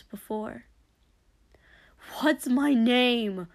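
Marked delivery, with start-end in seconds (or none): 2.2-3.5 slow, loud demand; forceful, drawn-out question. Acted. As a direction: insist on an answer. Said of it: "Shoto demanded".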